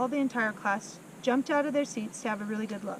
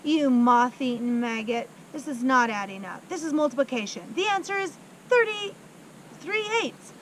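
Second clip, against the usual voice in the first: berating headmistress; 3 semitones higher, 4 dB louder than usual. Acted. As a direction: scold the boy mercilessly.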